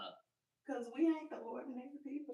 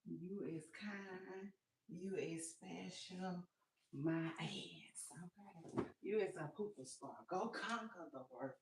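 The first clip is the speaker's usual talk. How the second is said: softer mock pep talk; soft affirmation; 3 semitones lower, 6 dB quieter than usual. To the viewers, a soft mock affirmation. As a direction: coo it like a caring nanny.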